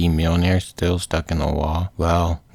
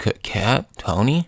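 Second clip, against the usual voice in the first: halting, raised questioning call; tentative, stammered questions; acted groggy confusion; 3 semitones higher than usual. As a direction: call out uncertainly on waking. Banner waking up, confused.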